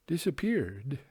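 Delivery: a breathy whisper on the final word. A narrator's reading. Narrator describing the apparition vanishing, whispered.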